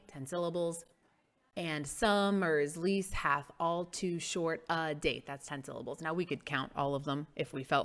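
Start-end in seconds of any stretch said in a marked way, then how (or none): 1.6-5.2 slowly, each syllable separate; slow measured recitation. Shown as a demonstration. Reciting line to count syllables.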